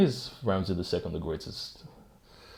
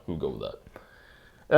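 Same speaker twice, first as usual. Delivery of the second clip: slow, lower repeat of "We'll go with that."; slow, resigned repeat; 5 semitones lower, slower than usual. Shown as a demonstration. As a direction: drag out "We'll go with that." as if settling. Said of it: "There we go".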